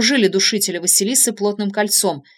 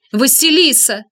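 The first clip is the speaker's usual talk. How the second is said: sobbing call; 5 semitones higher, 6 dB louder, slower than usual. A narrator's reading. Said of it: "позвал Кудесников, утробно всхлипнув".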